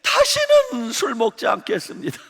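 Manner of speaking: high, loud pleading vow through laughter; laughing mock plea. Preacher imitating the drunk deacon begging God, laughing. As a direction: beg God, half laughing. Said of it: "이러는 거예요".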